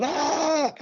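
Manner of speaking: sudden high ah of recognition; light up, you've placed the town; a happy high exclamation of recognition; surprised ah. Retold or imitated. Recognising the bloke's home town.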